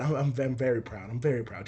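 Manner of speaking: low, soft, stumbling answer; nervous mumble. Retold or imitated. Son answering interviewer about his dad, nervous mumble. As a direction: imitate a stiff, nervous on-camera reply. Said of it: "Just like that".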